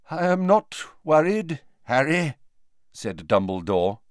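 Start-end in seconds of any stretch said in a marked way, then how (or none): 0.1-2.3 a little stronger. A narrator's reading. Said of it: "his voice a little stronger".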